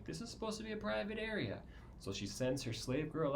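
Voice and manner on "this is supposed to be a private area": mock indignation. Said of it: "is like".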